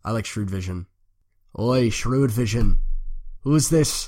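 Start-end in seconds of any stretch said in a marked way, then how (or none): 1.6-4.1 put-on Cockney street bandit; loud Cockney heckle, pitched up. Bandit hailing Shrewd Vision in the street, Cockney. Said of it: "like, Cockney people".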